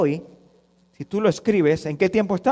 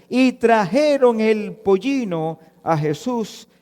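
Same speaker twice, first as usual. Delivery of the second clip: scripture reading. Acted. Reads Scripture aloud.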